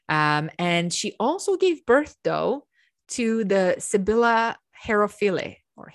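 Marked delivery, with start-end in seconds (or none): 4.8-5.6 Herophile with four syllables, final e sounded; variant pronunciation. Shown as a demonstration. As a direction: say Herophile the Greek way, ending in a vowel. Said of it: "however you want to say it".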